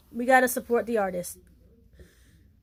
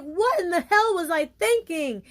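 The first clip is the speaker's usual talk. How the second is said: higher-pitched, incredulous self-reproach; mock disbelief; 6 semitones higher than usual. Newly self-loving viewer looking back, in mock disbelief. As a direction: act out baffled hindsight.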